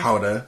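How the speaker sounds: Gouda said as HOW-da, breathy H; Gouda with the H sound, HOW-da; Dutch Gouda. Shown as a demonstration. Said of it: "my dad's actually Dutch".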